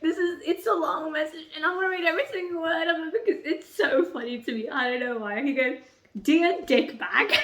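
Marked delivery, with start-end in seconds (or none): 6.2-7.4 laughing. Real, not acted. Reading Vicious's letter.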